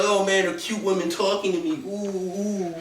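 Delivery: high, breathy simpering creep; high lovesick creep voice; pathetic incel voice. Retold or imitated. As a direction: coo like a smitten loser. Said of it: "You're like".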